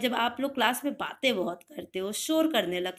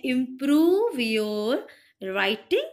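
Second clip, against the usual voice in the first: firm instruction; 4 dB louder, much slower than usual. Shown as a demonstration. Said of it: "उसको English में बोलते हैं".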